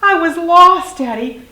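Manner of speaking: high, loud youngster's cry; little dinosaur. A narrator's reading. Little dinosaur reunited with Daddy, high plaintive cry. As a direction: blurt it out to a parent in a child voice.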